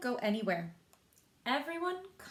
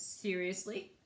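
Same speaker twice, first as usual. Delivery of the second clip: grumpy Ebert; 3 semitones lower, slower than usual. Acted. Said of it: "Ebert, with his frown, says".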